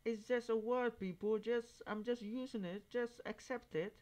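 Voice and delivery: a high, pleading, mocking whine; mock complaint. Mocking people who complain about his word, high and whiny. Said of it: "It's like".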